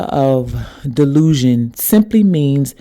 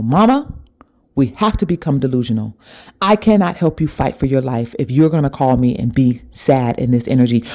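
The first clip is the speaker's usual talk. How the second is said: insistent plea, a bit faster, rising on Mama; urgent pleading. Retold or imitated. Spirit speaking through her to her mother, urgent. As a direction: press her mother to snap out of it. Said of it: "and it said to her".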